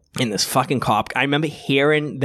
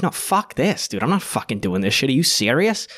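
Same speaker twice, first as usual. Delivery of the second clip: indignant protest; 2 semitones higher than usual. Retold or imitated. Retelling his refusal to go with the cops, indignant. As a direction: protest in disbelief, pitch jumping up.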